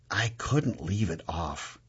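low, slow and soft; near whisper. Acted. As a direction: confess it quietly, almost to oneself. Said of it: "I whisper to the bar".

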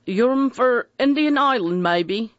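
a light Devon taxi driver's question; soft Devon voice. A narrator's reading. Devon taxi driver asking the travellers, in a soft Devon accent. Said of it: "he asked in a soft Devon voice".

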